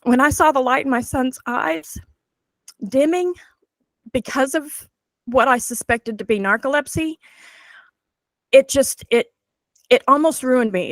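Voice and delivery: getting emotional. Real, not acted. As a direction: voice lifting, halting with real emotion. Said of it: "I'm gonna get emotional".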